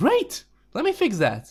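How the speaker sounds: gushing, overly enthusiastic, high sing-song cheer. Retelling a support chat, imitating an overly enthusiastic support agent. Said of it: "overly enthusiastic about the whole thing".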